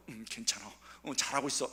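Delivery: calm them like a patient elder; reassuring. Pretend. Elder gently reassuring a rebellious youth, soft.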